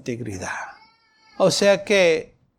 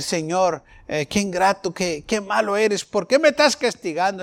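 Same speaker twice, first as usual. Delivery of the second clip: mock complaint; 3 semitones higher than usual. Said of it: "Y decir".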